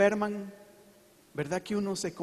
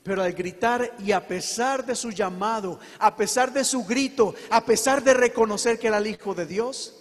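building from steady to loud on each a pesar de; preacher driving toward the climax, louder each phrase; building preaching; 4 dB louder than usual. Real, not acted. Preacher to church, rising to a loud climax.

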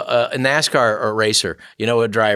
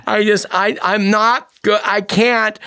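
mock crying; 8 semitones higher, slower than usual. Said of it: "she's literally crying, going".

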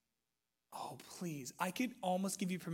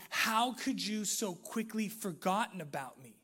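acted accusation, raised and higher; retold angry confrontation; 6 semitones higher, 7 dB louder than usual. Betrayed hero confronts the fiancee who married his friend, acted anger. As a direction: confront the one who betrayed you, voice climbing. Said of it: "he's freaking out in anger".

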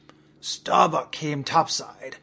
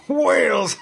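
much higher, much louder whoop; second whoop, louder and higher; bigger gleeful shout; 9 semitones higher, 9 dB louder than usual. Acted. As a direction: let the joy burst out even bigger. Gleeful captain riding whale spout.

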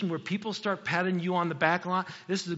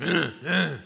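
imitating wrestler grunts. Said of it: "He grunts".

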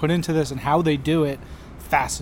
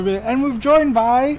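slow, higher mimic of his intro; imitating co-host; 7 semitones higher, slower than usual. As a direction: parrot his sign-on line, slowly. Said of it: "you never introduce me".

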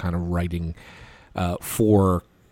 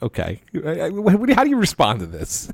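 exasperated; 7 semitones higher than usual. Retold or imitated. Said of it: "rolling my eyes".

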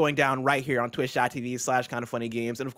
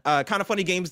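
talking through a costume mask; muffled under a helmet; muffled behind mask; 2 semitones higher than usual. Real, not acted. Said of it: "Why does Blessing sound muffled".

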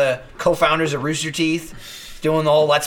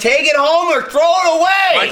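much higher, loud exasperated yell; fed-up shout at a coworker; 10 semitones higher, 3 dB louder, slower than usual. Real, not acted. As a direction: bellow the order across the office. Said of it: "repeats his angry line as a shout".

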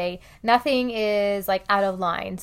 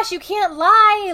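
higher, louder, slow scold; mother scolding her fibbing two-year-old, raised and slow; scolding mom; 11 semitones higher, 7 dB louder, slower than usual. Retold or imitated. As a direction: tell the toddler off, spacing the words. Mom scolding lying toddler.

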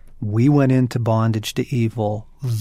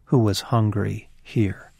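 poem recitation; slower than usual. Shown as a demonstration. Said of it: "he has this wonderful line where he says".

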